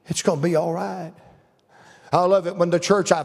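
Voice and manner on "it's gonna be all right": tender reassurance. Retold or imitated. Children reassuring their father.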